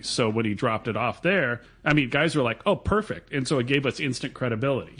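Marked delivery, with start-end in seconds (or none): 2.7-3.3 much higher pitched, imitating pleased customers; lightly acted high-pitched approval; retold delighted approval. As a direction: mimic customers happily agreeing.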